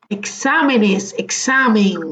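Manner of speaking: Exámenes, examen slowly, leaning on XA; stress on XA. Shown as a demonstration. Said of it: "Analiza dónde va la, el acento". (Exámenes, examen marcando despacio la sílaba xa)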